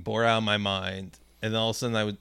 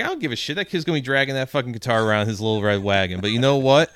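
cocky boast; 5 dB louder, faster than usual. Retold or imitated. Steve's defiant boast, retold.

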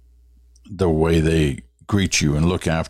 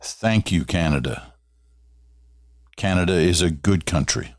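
light hint of a Dutch accent. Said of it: "said with a strong Dutch accent".

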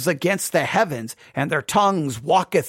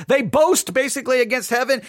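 normal talking voice

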